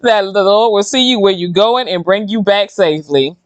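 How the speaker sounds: real laugh-cry while urging prayer; half laughing, half crying, earnest; laughing through tears. Real, not acted. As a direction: let the laugh and the tears mix. Emotional after near-death story.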